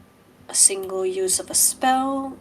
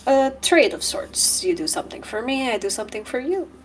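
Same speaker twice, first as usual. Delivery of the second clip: lightly voiced smooth dealmaker, a little raised; smarmy stranger; 4 semitones higher than usual. Aslan offering a trade of sorts, lightly smarmy. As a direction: pitch the offer with slippery politeness.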